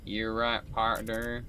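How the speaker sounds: put-on drunken Southern US drawl; tipsy Southern cowboy, hammed up; drunk southern accent. Shown as a demonstration. Showing the most attractive English, mock drunk southern accent. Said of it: "spoken drunkenly with a southern accent".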